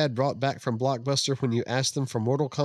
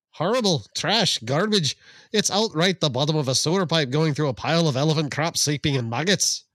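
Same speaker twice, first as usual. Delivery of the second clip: Irish accent; 3 semitones higher than usual. Shown as a demonstration. Co-host asks for an Irish accent, it comes out Scottish. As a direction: read the review in an Irish accent that slides into Scottish. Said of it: "You gotta say it with an Irish accent".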